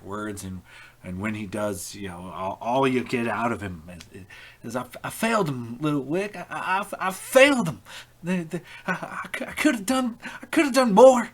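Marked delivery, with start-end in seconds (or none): 4.8-11.3 high, loud broken voice, cracking into whispers; sobbing confession. Acted. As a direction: choke out the guilt between sobs. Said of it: "then he breaks down and, and just begins crying again".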